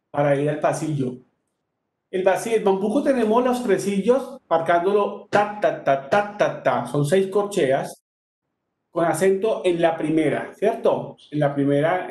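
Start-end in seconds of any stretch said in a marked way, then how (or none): 5.3-6.9 "ta, ta, ta" chanted with the first of three stressed; triplet accents. Shown as a demonstration. Teacher marking bambuco triplets for students, first "ta" accented. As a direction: mark "ta" in two groups of three. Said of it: "en la primera de cada tresillo".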